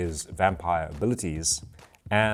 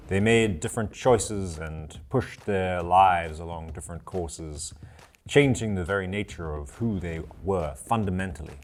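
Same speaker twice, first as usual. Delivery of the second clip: game master's recap. Acted. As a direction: recount the heroes' saga with deliberate pauses. Game master recaps previous episode.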